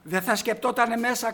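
normal talking voice

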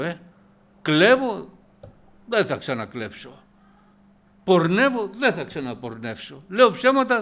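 loud, driving preacher's cadence; preaching at full force. Acted. Preacher rousing the congregation against sin, loud and emphatic. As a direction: hammer each sin home to the congregation.

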